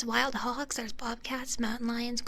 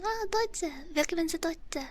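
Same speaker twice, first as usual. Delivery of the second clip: put-on German phrases, English accent. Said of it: "That accent is serious".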